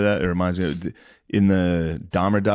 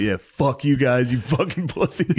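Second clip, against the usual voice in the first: retold defiant taunt; 4 semitones higher than usual. Killer to watching families, rising mocking taunt. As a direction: stretch out the mock parting insult. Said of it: "talked shit at the execution".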